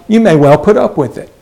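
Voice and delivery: mildly incredulous. Acted. Preacher quoting Paul to the church, mildly incredulous. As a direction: read it with a touch of disbelief. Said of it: "as if he's incredulous".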